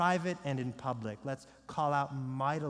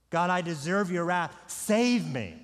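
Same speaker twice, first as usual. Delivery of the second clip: louder cry to God for mercy; acted penitent's appeal, voice raised; earnest plea; 5 dB louder than usual. Acted sinner pleading to God.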